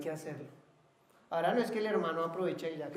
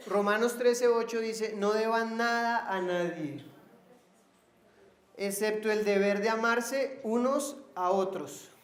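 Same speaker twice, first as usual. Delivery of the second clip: slow, emphatic scripture reading; preaching scripture; 3 semitones higher, 5 dB louder, slower than usual. Real, not acted. Preacher reading Romans to the congregation, slow proclamation. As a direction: proclaim the verse with measured weight.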